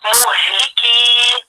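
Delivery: مهلكي recited alone, final ii held long; madd kept on stopping. Shown as a demonstration. Teacher showing the stop on a word, long final vowel. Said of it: "لما بقف على الكلمة بقول".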